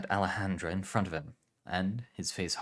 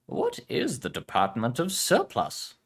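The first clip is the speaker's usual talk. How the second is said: put-on Spanish accent; 5 semitones higher, 4 dB louder, slower than usual. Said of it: "Spanish heritage".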